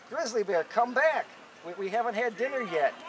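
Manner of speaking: calling after. Acted. Coyote chasing the bear, calling after him.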